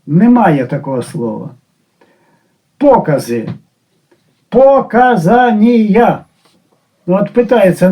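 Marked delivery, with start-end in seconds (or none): 4.5-6.2 Показанія said slowly and higher, mocking; mocking Russian word. Shown as a demonstration. Teacher ridiculing the long Russian word. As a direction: drag out Показанія scornfully. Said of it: "навіщо його городити стільки".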